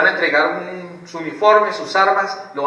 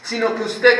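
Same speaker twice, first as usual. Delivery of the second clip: usual speaking voice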